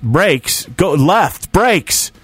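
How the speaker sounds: rising alarm, brakes after brakes; urgent warnings. Retold or imitated. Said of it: "And I'm like".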